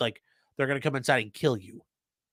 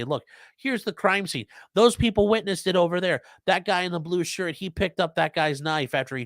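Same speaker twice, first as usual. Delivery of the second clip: raised, louder witness briefing; urgent pointing-out; 5 semitones higher, 4 dB louder than usual. Acted. Shooter shows police the crime scene, urgent and emphatic.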